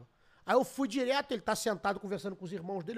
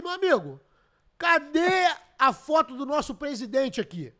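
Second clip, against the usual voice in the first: retold challenge; 5 semitones higher, 7 dB louder, slower than usual. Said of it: "Eu olhei pro cara e falei".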